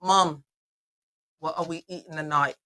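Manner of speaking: lightly put-on English accent; playful hint of an English accent. Son calling mom for fun, mock English accent. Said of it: "we talk in our English accent".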